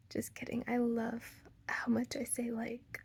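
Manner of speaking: soft breathy aside to herself; whispered aside. Real, not acted. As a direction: whisper it like a secret joke. Whispered self-mocking aside.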